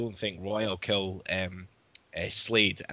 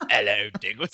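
laughing imitation of a London greeting; mimicked London accent. Co-host mimicking the villain's greeting, mock London accent. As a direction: lightly copy a Cockney hello. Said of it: "Is it like he's London now?".

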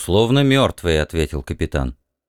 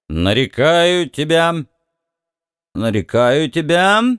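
put-on slow slurred drunk mumble; drunken slur; 5 semitones higher than usual. A narrator's reading. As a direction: mumble it with a heavy tongue. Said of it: "заплетающимся языком бормотал Бикс".

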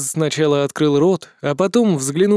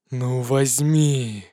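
slow, softer pitiful begging; pitiful plea; 3 semitones lower, 3 dB quieter, much slower than usual. Acted. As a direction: plead like a sad child. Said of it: "жалостливо проговорило существо". (жалобная просьба)

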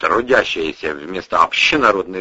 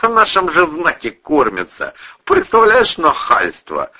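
conspiratorial; 7 semitones higher, 3 dB louder than usual. Acted. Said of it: "заговорщически подмигнул".

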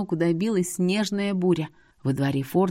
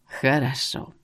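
mysterious; 5 semitones lower, slower than usual. A narrator's reading. Seer agrees with a hidden plan, low mysterious. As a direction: lower mysterious voice. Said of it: "таинственно произнёс он".

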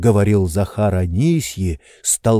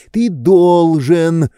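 high, slow, pressing demand; urgent insistence; 7 semitones higher, 5 dB louder, much slower than usual. Acted. Oblomov pressing Zakhar, urgently. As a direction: lean on every word.

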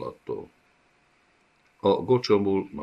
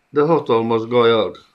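higher, louder frightened cry; alarmed protest; 5 semitones higher, 8 dB louder than usual. Acted. The gocsomul cries out in fear to Gajag. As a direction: plead against the master's plan.

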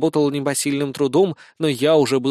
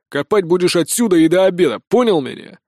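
stern order; 3 semitones higher, 4 dB louder than usual. A narrator's reading. Sergeant gives order.

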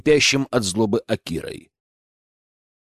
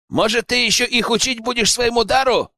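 much higher sneering jab; mocking exclaim; 10 semitones higher than usual. A narrator's reading. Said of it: "воскликнул один из ребят".

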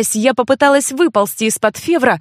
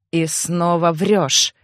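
low, slow, hoarse drawn-out line; hoarse drawl; 5 semitones lower, much slower than usual. Acted. Brother drawls at his lying sister, hoarse and slow. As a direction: drag it out hoarsely. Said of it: "хрипло протянул Февр".

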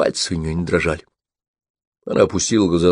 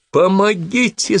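high, slow, desperate cry; screaming for help; 13 semitones higher, slower than usual. A narrator's reading. Woman pinned down by her attacker, desperate high scream for help. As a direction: cry out for help with all you have. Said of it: "закричала Кристина".

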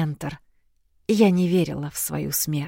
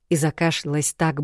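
usual speaking voice

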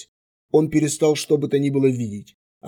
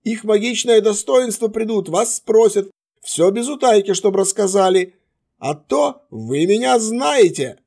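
lordly command; 8 semitones higher, 4 dB louder than usual. Acted. Wounded mage addresses guards.

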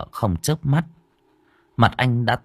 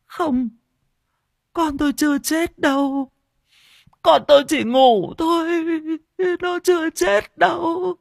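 much higher, desperate shouting; frantic denial. Acted. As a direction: refuse the truth, half mad. Maddened mother refuses child's death.

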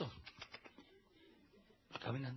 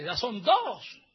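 slow count rising high and louder; retold warning count; 5 semitones higher, 6 dB louder, much slower than usual. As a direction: stretch the count out as a mock threat. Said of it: "Le dice".

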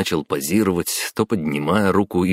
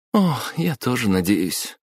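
giggling; 6 semitones higher than usual. A narrator's reading. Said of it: "хихикнула блондинка".

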